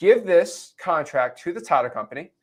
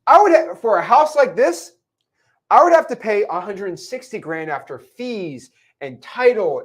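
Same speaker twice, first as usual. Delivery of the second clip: higher, eager buyer voice; pleased buyer; 3 semitones higher than usual. Retold or imitated. Buyer reacting to the wholesale price, higher and eager. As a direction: talk yourself into the deal. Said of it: "He says".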